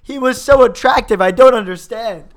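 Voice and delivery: hammed-up incredulity, hitting key words loudly; baffled disbelief. Friends playing movie characters puzzling over the heist, mock-baffled. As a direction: act out mock bewilderment, emphatic and high.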